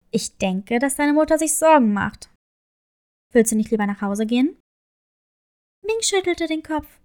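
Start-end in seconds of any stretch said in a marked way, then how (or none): 0.1-4.6 low, kindly crab character; friendly crab voice. A narrator's reading. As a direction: speak as a gentle low crab. Crab speaks to Ming.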